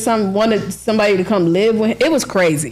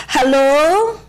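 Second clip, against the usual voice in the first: put-on Asian accent, higher; playful fake Asian accent on the phone; lightly voiced fake Asian accent answering the phone; mock Asian accent; 6 semitones higher than usual. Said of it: "I put on my best Asian voice".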